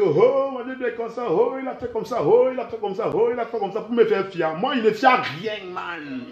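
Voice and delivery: mocking, exclaiming quote of onlookers; mock outcry. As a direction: mimic their repeated "oh" complaints. Mimicking people's exclamations about him.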